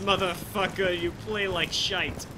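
slow, mock Russian gamer insult; Russian accent. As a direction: drawl it like a Russian troll. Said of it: "he'll spell it Russianly".

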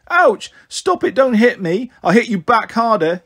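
put-on high yelp easing into an indignant child's yell; yelled protest. A narrator's reading. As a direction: voice a hurt boy yelling back, starting very high. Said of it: "he yelled".

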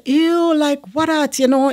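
high, mock disgusted ew. Telling the couple off about their talk, high and disgusted.

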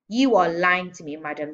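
loud accusation dropping on the last word; shouted. A narrator's reading. Headmistress accuses small girl of lying, shouting. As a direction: hit the opening hard. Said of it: "the Trunchbull shouted".

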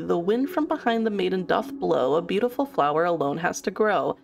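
measured sing-along rhyme reading; storybook verse recital; reading verse aloud. A narrator's reading. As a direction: read out the old rhyme line by line. Reads a riddle verse aloud.

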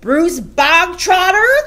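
loud, high, drawn-out summons; sudden bark. A narrator's reading. Headmistress calls out a pupil in assembly, barked. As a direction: bark the name across a hall. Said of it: "barked suddenly".

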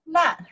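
"Nan" said high and rising, second tone; teacher modelling "Nan" with a rising second tone. Shown as a demonstration. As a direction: sing "Nan" upward like a question. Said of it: "I pronounce".

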